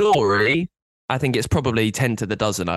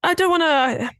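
much higher, mock prim voice; high, prim reluctance; mock coy. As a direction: squeak it out with put-on innocence. Mock coy about the name.

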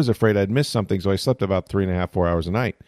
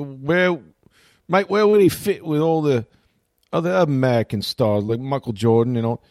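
put-on mild Australian accent, higher questioning voice; Australian host impression; 5 semitones higher than usual. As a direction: ask it like an Aussie morning host, in an Australian accent. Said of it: "I can't do Australian accents".

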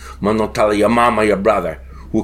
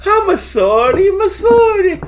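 high laughing shout; sorry through a laughing fit; laughing apology; slower than usual. Acted.

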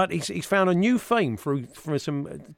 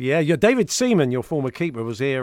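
Arsene Wenger impression; 3 semitones lower, 3 dB louder than usual. Wenger guest interview.

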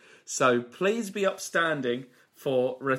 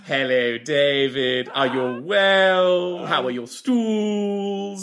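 Michael Holmeal; 2 semitones higher, 4 dB louder than usual. Acted. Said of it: "It's Mister Michael Holmeal".

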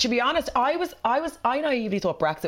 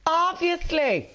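emphatic obviously; 9 semitones higher, much slower than usual. Real, not acted. Emphatic drawn-out answer, then echoed.

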